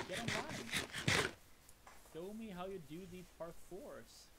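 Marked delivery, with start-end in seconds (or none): 0.1-1.3 stretched, loud call out; drawn-out call. Real, not acted. Calling a friend into game.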